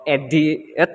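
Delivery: "edit" drawn apart, e-di-it; wrongly split word. Shown as a demonstration. Student showing classmates another wrong stress, "edit" split as e-di-it. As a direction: pull "edit" apart after the di. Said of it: "it's not edit or".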